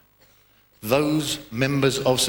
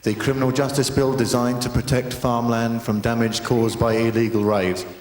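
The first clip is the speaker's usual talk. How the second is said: news reader parody; 2 semitones lower than usual. Retold or imitated. Comic mocking the news, lightly done newsreader voice. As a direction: read it like a stiff BBC bulletin. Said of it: "read any old shit on the news".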